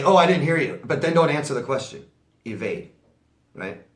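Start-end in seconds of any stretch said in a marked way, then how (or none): 0.0-0.8 louder, mock-innocent excuse; fake apology. Shown as a demonstration. Telling viewers how to fob off a rude coworker, mock-innocent. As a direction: play dumb, like you honestly missed it. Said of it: "And then say".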